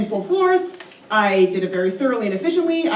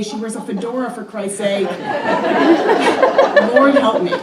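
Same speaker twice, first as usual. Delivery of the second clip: hysterical rant; 4 dB louder than usual. Retold or imitated. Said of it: "verging hysteria".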